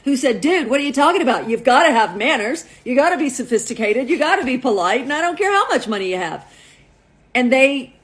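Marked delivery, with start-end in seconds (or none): 0.4-6.5 imitated mentor's scolding, emphatic; good talking-to. Billionaire mentor to younger friend, imitated talking-to. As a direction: lecture him, punching each rule. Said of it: "they gave him a good talking to".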